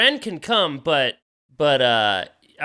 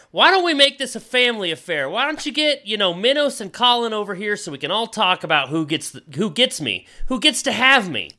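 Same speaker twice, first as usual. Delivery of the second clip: talking sword voice; 5 semitones higher than usual. Acted. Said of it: "Elrond, you hear".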